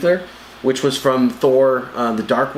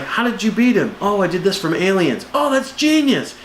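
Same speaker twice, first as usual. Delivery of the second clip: much higher, hammed-up dialogue; mock hero chatter; 7 semitones higher than usual. The heroes trading war stories, hammed-up high voices. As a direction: play both heroes in a goofy voice. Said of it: "which he's like".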